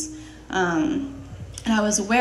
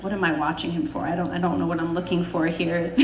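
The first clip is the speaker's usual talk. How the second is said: puzzled inner thought; 3 semitones lower than usual. Retold or imitated. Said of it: "sitting there thinking".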